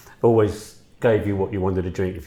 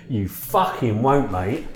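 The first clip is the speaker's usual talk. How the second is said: imitated Peckham bloke, drawn out; mock-indignant Peckham waiter; Peckham accent; 3 semitones higher, 4 dB louder, much slower than usual. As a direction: slip into blunt Peckham speech. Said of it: "He was a little bloke from Peckham".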